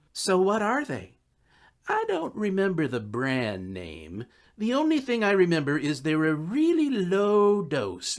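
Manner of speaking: a hint of the shrugging drug-dealer friend; easy, offhand excuses from a lightly sketched dealer; lightly voiced Dave, casual. Narrator voices Dave's excuses.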